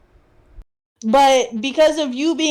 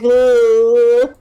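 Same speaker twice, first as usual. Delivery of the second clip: impressed ooh; 8 dB louder than usual. Retold or imitated. Maids react to big dude.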